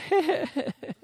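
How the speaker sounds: high, soft mock snicker; Agag. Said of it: "Agag going".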